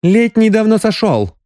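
high, relentless retort; merciless. A narrator's reading. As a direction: cut down his excuse without pity. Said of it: "безжалостно продолжила Соня". (безжалостно, высоким голосом)

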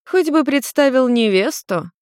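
high, slow mocking mother voice; mother smirking at her son. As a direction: needle your son with a smirk. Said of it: "Нарико усмехнулась".

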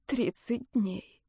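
slow, soft and spent, twice as slow; quiet, weary admission; said aloud, hushed. A narrator's reading. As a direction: let the words fall out quietly. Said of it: "наконец, произношу вслух".

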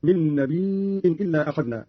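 "نبي" said nabii'in, with a glottal stop; hamza on nabi. Shown as a demonstration. Teacher repeating Qalun's reading, "نبي" with long i and hamza. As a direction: slowly draw out "نبي" into a hamza. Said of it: "قرأ قالون بهمز الياء".

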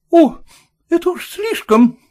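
high, loud order to leave; lady shouting at landlord to leave; furious shout. A narrator's reading. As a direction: throw the landlord out. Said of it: "крикнула хозяйка".

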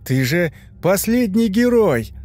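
mocking monster voice. A narrator's reading. Monster mocks the hero.

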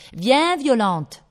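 high, loud summons in French; calling out. A narrator's reading. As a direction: call the child to you, falling at the end. Aunt calls the girl away.

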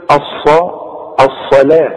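الصلاة split, long aa after the l; written waw read as alif. Shown as a demonstration. Teacher shows students the spelling's sound, long aa in الصلاة. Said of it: "تنطق بالالف".

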